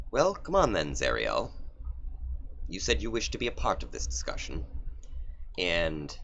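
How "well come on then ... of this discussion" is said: higher, impatient devil lord; lightly voiced Asmodeus. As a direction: call her through the portal, bored. Asmodeus calls Zariel.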